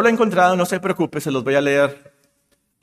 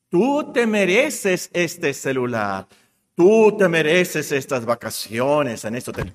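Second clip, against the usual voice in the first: advertising slogan; slower than usual. Acted. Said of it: "Una de las frases favoritas de la mercadotecnia".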